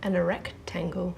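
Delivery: breathy laughing punchline; laughing whisper. Real, not acted. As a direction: giggle out the answer.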